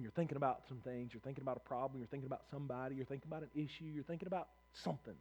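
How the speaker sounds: low, hushed repetitive list; soft, low rumination; acted night-time brooding. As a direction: murmur it like thoughts circling at night. Picturing lying awake at night brooding.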